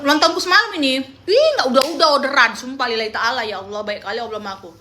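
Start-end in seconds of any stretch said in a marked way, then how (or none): 1.1-4.7 overwhelmed joy. Retold or imitated. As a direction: gush about never-ending orders. Retelling her overwhelmed joy.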